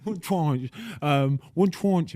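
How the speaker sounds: put-on playful go at a Boston accent on "tranche"; mock Boston accent. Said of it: "why are you doing a Box Boston accent".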